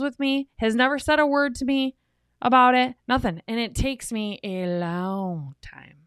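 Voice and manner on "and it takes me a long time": slow. Shown as a demonstration. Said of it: "as you can tell".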